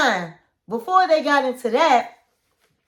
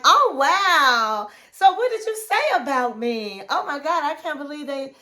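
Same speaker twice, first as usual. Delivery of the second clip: happy; 3 semitones higher than usual. Retold or imitated. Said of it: "she was so happy".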